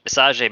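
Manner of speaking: visage said as vee-sah-ZHAY; mock-French visage, ending in "zhay"; fancy mispronunciation. Shown as a demonstration. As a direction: put a fancy "ay" on the end of visage. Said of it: "makes it sound more fancy".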